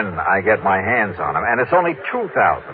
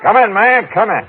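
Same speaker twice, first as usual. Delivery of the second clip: loud, high Texan call; rich Texan; 11 semitones higher, 5 dB louder than usual. Pretend. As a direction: holler it in a put-on Texas accent. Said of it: "act out the part of the rich Texan".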